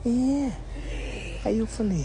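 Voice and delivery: breathy hushed whisper. Real, not acted. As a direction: whisper so he can't hear. Keeps voice down near grandpa.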